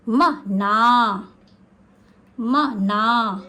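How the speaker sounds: very slow, each syllable म and ना separated. Shown as a demonstration. Teacher sounding out for children, very slowly. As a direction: spell it out slowly, म then ना. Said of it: "इन तीनों के उच्चारण पर ध्यान देंगे।".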